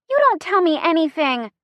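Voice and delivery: high-pitched hurt complaint; indignant. A narrator's reading. Chrissy reproaches driver over secret, indignant.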